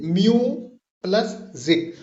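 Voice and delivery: म्यू and जिक said as separate syllables; split into syllables. Shown as a demonstration. Teacher showing music's two syllables, split apart. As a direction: break म्यू from जिक with a pause. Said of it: "इसमें दो syllables पाए जा रहे हैं".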